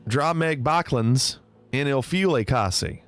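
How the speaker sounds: a light southern twang on the Norwegian; a touch of twang, down-south style; a little twang. Shown as a demonstration. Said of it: "say it with a little twang".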